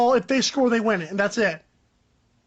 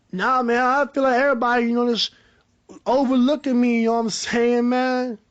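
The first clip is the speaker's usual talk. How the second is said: Antonio Brown impression. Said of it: "I did a better Antonio Brown impression".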